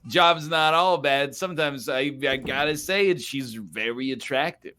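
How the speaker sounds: mock creep. Ghost hunter ogles an attractive spirit, mock creep. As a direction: imitate a creep admiring what he sees. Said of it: "like, a real creep about it".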